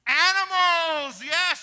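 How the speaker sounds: Animals drawn out slowly, high and loud; excited call-out. Real, not acted. Preacher confirming Tina's answer, slow, high and loud. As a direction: ring the answer out to the room.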